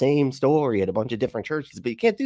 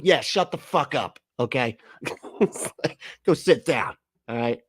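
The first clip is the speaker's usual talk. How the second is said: hammed-up preacher, building to a shouted boast; mocking the preacher; 3 semitones higher than usual. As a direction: parody preacher taunting a doubter. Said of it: "And she's like".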